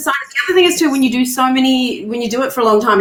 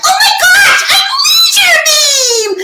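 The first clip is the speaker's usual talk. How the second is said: very high, drawn-out, huge heroic yell; 5 dB louder than usual. Retelling an audition, throwing oneself around: high-pitched Leisure Beam voice. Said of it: "it was quite high pitched".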